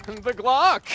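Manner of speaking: laughing, high mock announcer; hammed-up cartoon narrator; imitating SpongeBob announcer. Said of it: "the SpongeBob announcer".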